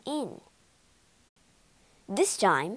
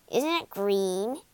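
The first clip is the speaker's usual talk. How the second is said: proud. Acted. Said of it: "Oz asked proudly".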